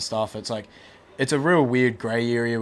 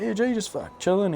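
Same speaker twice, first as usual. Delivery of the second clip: imitating his younger self; 9 semitones higher than usual. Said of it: "I was like".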